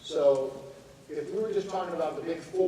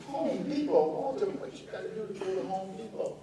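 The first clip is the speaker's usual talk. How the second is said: incredulous aunt; 5 semitones higher than usual. Retold or imitated.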